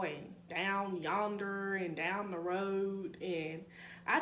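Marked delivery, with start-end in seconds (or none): 0.5-1.7 put-on slow, drawn-out country accent. Quoting Mississippi locals, slow country accent. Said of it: "like, the country accents". 2.0-3.2 slow imitated Mississippi country accent. Quoting how Mississippi people talk, slow country accent. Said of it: "like, the country accents".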